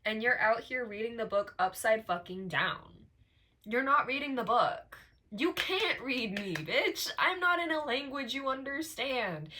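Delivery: rising to a loud, sassy rebuke; defiant rant. Real, not acted. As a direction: tell them off with full attitude.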